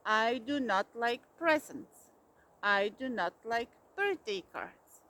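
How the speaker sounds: loud, building bellow; roared. A narrator's reading. Bear refusing all birthday things, loud roar. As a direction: roar each refusal harder.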